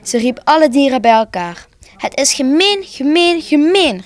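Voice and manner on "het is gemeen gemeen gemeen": high-pitched, repeated exclamation of protest; indignant outcry. A narrator's reading. Squirrel protests the little Santa's treatment, indignant outcry. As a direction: cry out at the unfairness. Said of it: "riep de eekhoorn uit".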